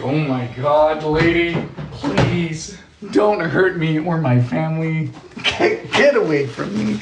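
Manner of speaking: slow, drawn-out pleading; hammed-up nervous begging; mock dread. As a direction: plead slowly, pretending to be creeped out. Acts reaction to creepy teacher.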